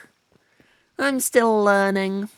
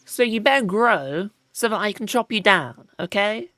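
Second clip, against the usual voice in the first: bully the tree into growing, half joking; mock threat; 3 semitones higher than usual. Player threatening a tree with an axe, mock menace. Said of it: "Have I tried threatening them to grow?".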